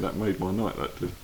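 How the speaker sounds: usual speaking voice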